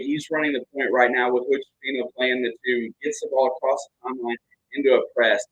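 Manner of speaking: brisk live game commentary; play-by-play. Acted. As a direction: call the action as it happens.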